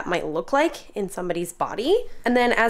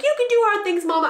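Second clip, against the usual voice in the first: put-on much higher, louder child voice; imitating son cheering; 13 semitones higher, 5 dB louder, faster than usual. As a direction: cheer her on like an eager boy. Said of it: "he's like".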